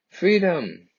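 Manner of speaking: put-on marching children shouting back their answer; crowd response. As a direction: answer back with everything you've got.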